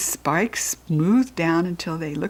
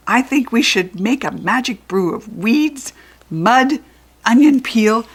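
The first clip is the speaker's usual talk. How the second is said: goblin voice; 4 semitones higher, 6 dB louder than usual. Acted. Goblin proposing a brew.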